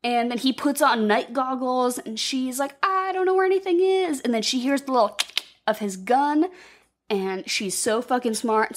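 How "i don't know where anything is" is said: high, anxious cry; mock panic. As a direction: play her lost and panicky. Clarice lost in dark basement.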